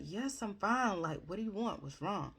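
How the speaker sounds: a hint of an exasperated seventeen-year-old; annoyed teenager. Son brushing off his worried mom, mildly annoyed. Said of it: "seventeen-year-old".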